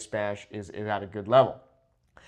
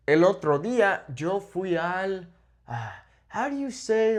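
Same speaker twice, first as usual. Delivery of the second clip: searching for a word; 5 semitones higher than usual. Shown as a demonstration. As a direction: play a learner stuck mid-sentence. Acts learner searching for a word.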